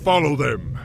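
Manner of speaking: rally the troops to protect Cairn; commanding battlefield shout; urgent command. Acted. War chief orders troops.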